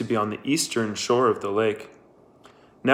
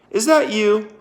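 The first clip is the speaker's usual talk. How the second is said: high, louder astonished question; surprised; 10 semitones higher, 5 dB louder than usual. Acted. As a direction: catch your breath at who she sees. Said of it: "asked Kate".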